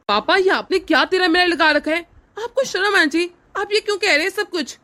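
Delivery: son's rising indignation at father; outraged. Acted. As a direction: shame the father. Son confronts father.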